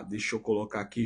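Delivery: usual speaking voice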